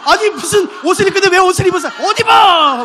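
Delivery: 할아버지가 버럭 소리치듯; 문 차고 들어오며 호통; angry shout. Retold or imitated. Grandpa yelling at grandma. (할아버지의 고함)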